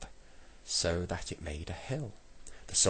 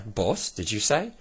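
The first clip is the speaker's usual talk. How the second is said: raised, puzzled call; shouting back; 5 semitones higher, 6 dB louder than usual. A narrator's reading. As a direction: call the question back, higher and louder. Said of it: "shouted back Saucepan Man".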